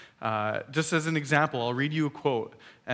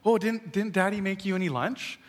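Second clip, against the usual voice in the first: wife; 5 semitones higher than usual. Retold or imitated. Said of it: "And I hear her go".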